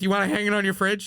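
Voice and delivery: a hint of a needy young artist; eager for approval. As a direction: pitch it up, hopeful for praise. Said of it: "I immediately wanna be like".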